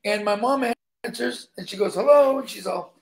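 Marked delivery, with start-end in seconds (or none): 1.9-2.4 higher, louder phone hello; mom answering phone. Retold or imitated. Mom answers a call from her son's date, bright pickup greeting. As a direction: pipe up as mom picking up.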